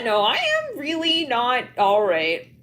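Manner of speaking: mock distressed wail. Acting out distressed friend scene.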